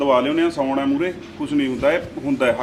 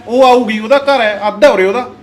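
raised, firm voice defending his sister; angry retort; 6 dB louder than usual. Acted. Brother defending his sister to his wife, angry and louder. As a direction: snap back at the wife, louder.

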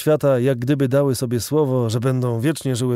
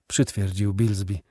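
ordinary delivery

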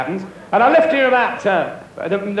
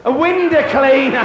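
high, slow mock-amazed repeat of the job; mock surprise; 5 semitones higher, 8 dB louder than usual. Real, not acted. Comedian to audience member, mock amazed. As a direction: drag out the answer in fake astonishment.

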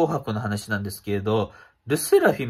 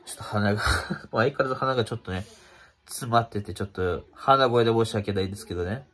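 stuffy nose; faster than usual. Real, not acted.

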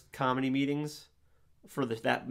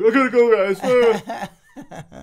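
panicked rushed quote; 8 semitones higher, 13 dB louder, much slower than usual. Retold or imitated. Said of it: "I'm like".

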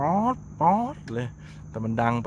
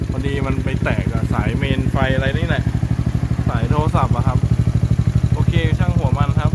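raised voice over engine; 2 semitones higher, 9 dB louder than usual. Real, not acted. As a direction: shout to be heard above the bike. Talking over a revving motorbike. (ตะโกนแข่งกับเสียงท่อ)

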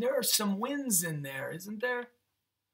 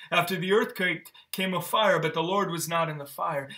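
measured, louder reading of the Bible passage; scripture reading; 4 dB louder than usual. Acted. Pastor reading scripture to the congregation, solemn. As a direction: read the verses with weight.

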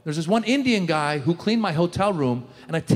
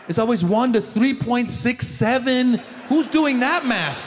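exasperated rant; 5 semitones higher, slower than usual. Real, not acted. Mock exasperation at exchange rates.

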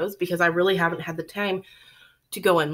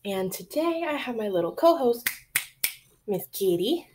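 out of breath. Real, not acted. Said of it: "sorry if I'm a little out of breath".

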